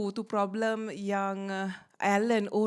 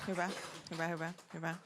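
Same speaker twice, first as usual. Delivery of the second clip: quiet muttered hebat; 5 semitones lower, 11 dB quieter, much faster than usual. Real, not acted. Quiet aside after the joke.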